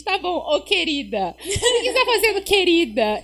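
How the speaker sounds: laughing mock-sweet querida; laughing tease. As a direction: tease her with sugary querida. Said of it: "A gente".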